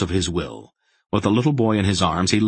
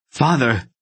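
a high, louder sharp call; 7 semitones higher, 4 dB louder than usual. A narrator's reading. Aunt Paul sharply rouses her stunned father. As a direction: snap his name to rouse him. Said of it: "Aunt Paul said sharply".

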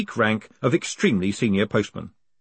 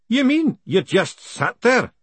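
put-on young girl voice, much higher; 12 semitones higher, slower than usual. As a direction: raise the pitch like a girl. Aggie voiced high.

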